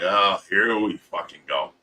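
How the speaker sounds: low, soft, resigned mutter; muttering as the crowd approaches; weary resignation. Retold or imitated. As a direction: sigh it out under the breath. Crowd coming to his house.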